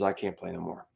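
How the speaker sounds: a sick man giving up; weak and beaten. Retold or imitated. Drummer telling the band he quits, weak and drained. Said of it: "looks at us and says".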